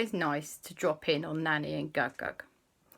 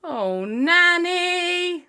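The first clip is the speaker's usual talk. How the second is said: slow pitying sigh; 11 semitones higher, 6 dB louder, much slower than usual. Acted. Family pities Nanny.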